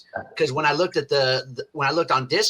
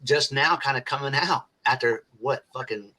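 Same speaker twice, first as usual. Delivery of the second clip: stoned; 3 semitones lower, 4 dB quieter than usual. Real, not acted. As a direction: drift off like a stoned guy. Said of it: "I'm a little stoned".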